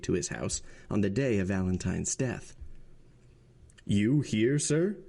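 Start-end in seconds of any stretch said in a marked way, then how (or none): 3.9-5.0 rising sharply on sir; startled exclamation. A narrator's reading. Villefort startled to find the Abbé there, exclaiming. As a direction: caught off guard, exclaiming. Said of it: "he exclaimed".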